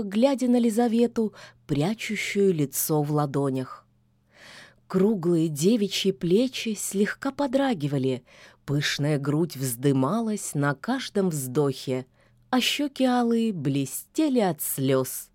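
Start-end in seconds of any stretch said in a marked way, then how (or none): none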